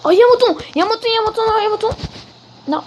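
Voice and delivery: excited. Real, not acted. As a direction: gasp with delight. Spots a sheep, thrilled.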